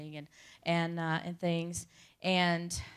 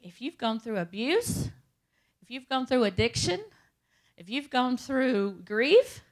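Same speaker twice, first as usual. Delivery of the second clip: preacher listing; 3 semitones higher, 4 dB louder than usual. Retold or imitated. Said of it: "he starts listing all this stuff".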